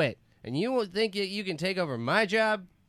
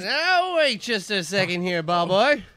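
ghost coach voice; 3 semitones higher, 4 dB louder than usual. Acted.

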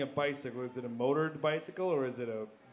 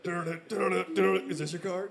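cheesy magician flourish; 4 semitones higher than usual. Retold or imitated. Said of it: "They're like".

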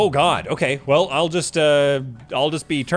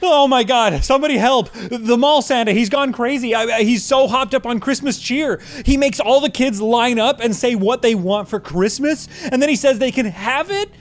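panicked; 6 semitones higher than usual. Acted. Panicked plea for help.

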